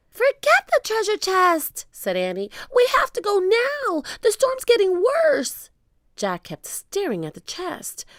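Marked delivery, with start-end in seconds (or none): 0.1-1.9 high, loud protest; urgent insistence. A narrator's reading. Annie pushing Jack to leave, urgently calling. 2.7-5.7 high, loud plea; urgent warning. A narrator's reading. Annie warning Jack of the storm, calling urgently.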